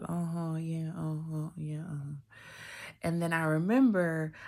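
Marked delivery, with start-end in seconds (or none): 0.0-2.2 imitating a dismissive friend; uninterested, going through the motions; blowing someone off. Best friend brushing off her news, dismissive. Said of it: "she was just blowing me off like".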